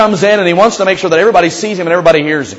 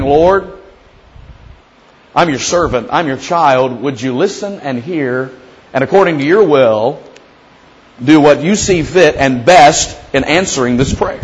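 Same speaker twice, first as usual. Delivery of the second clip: soft, slow and lowly; a reverent servant's plea; humble, quiet prayer; 3 semitones lower, slower than usual. Retold or imitated. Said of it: "Instead of coming and saying".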